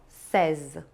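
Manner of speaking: "seize" drawn out slowly. Shown as a demonstration. Teacher insists slowly on seize for students. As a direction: stretch out seize. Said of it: "Não existe".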